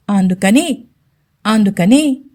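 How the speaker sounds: halting, unsure repeat; a touch of nervous hesitation; hesitant mumble. Acted. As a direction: trail off as if afraid to say it. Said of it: "అని నసుగుతూ అంది రవళి".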